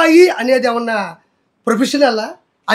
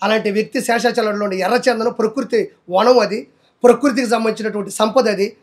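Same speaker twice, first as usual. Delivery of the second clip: lower, softer, mock-innocent imitation of Roja; a sly mocking impersonation, lower and softer; 4 semitones lower, 5 dB quieter than usual. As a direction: mimic her soft pleading denial. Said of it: "Roja అల్లా".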